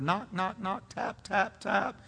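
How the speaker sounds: hushed, tender knocking voice; quiet, gentle. Acted. Preacher voicing God's still small voice to Elijah, very quietly. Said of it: "very quietly, very gently".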